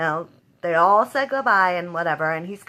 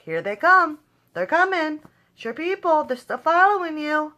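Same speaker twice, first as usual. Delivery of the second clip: high, taunting sing-song imitation of the villain; mock taunt; 9 semitones higher than usual. Mimicking Gunther taunting the grieving king, high and mocking. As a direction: sneer it up high like a bully. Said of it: "taunted him".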